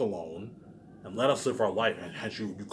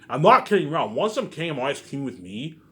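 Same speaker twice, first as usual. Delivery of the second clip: louder, higher, fed up; raised voice, done warning them; angry shout; 4 semitones higher, 5 dB louder than usual. Real, not acted. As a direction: bark it at them, furious. Angry rant at viewers.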